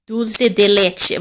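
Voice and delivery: slow "Dulce de leche" with a put-on accent, "DOOL-seh deh LEH-chee"; incorrect foreign accent. Shown as a demonstration. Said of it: "I can't do it without the accent".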